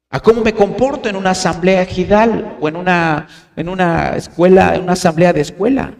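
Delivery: a mildly aggrieved member's voice, lightly played; half-hearted imitation of a resentful member; complaining church member. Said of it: "puede sonar como".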